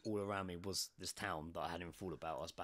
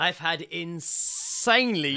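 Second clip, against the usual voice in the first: mocking slow drawl; 8 semitones higher, 11 dB louder, much slower than usual. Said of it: "You're just like".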